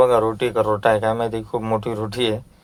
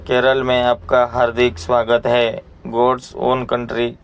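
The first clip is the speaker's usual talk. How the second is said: reading a sign slowly; much slower than usual. Retold or imitated. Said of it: "असं म्हणून ते board लिहिलं आहे".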